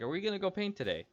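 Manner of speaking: high, fast whiny mimic of the friend; mock pestering friend. Mocking the friend who keeps pestering, in a high whine. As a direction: squeak it out like an annoying kid.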